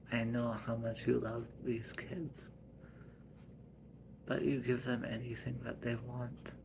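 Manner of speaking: hushed gentle scolding; soft whisper. Acted. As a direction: whisper it softly.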